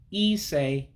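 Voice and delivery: Ise said as ee-say. Shown as a demonstration. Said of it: "makes an A sound in English".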